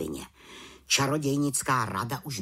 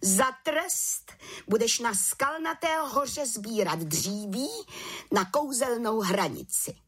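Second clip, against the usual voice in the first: higher, slow mocking head witch; mocking command; 9 semitones higher than usual. A narrator's reading. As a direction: sneer out the punishment. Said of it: "Posměšně jí pak přikázala". (vrchní čarodějnice posměšně přikazuje, výš a pomalu)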